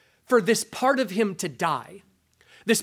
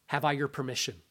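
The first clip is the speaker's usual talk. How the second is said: quiet angel voice; 6 semitones lower, 8 dB quieter, faster than usual. Acted.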